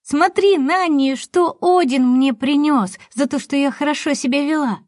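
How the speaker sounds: put-on a delighted child showing off her present; excited little girl. Excited child shows new gift.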